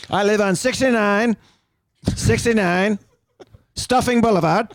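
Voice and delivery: put-on Southern accent. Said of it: "Why do I have to talk with that accent?".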